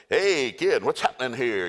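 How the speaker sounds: news reporter. Retold or imitated. CNN crew accosts Gideon, eager reporter. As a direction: pounce on a kid for a story.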